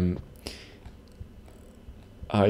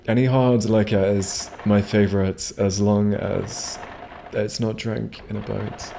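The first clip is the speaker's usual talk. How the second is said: put-on Trailer Park Boys voice. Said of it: "reminds me of the Trailer Park Boys".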